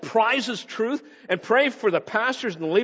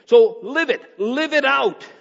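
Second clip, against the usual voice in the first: rousing exhortation; 5 semitones higher, 5 dB louder, slower than usual. Real, not acted.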